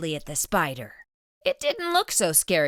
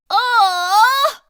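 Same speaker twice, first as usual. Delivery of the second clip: high, louder mock sigh; 10 dB louder than usual. Splat sighing at losing to his friends, mildly sad. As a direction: sigh it out, disappointed. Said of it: "Splat sighed".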